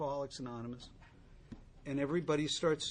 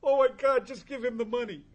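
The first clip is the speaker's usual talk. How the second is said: much higher, louder, horrified plea; disgusted bar crowd; 10 semitones higher, 12 dB louder than usual. Retold or imitated. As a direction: onlookers begging him to stop chewing the glass.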